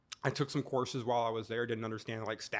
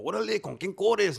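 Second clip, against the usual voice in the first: higher, louder tough Spanish challenge; Chicano inmate challenge; 9 semitones higher, 7 dB louder than usual. Retold or imitated. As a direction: bark it like a yard veteran sizing him up. Inmates question him in Spanish.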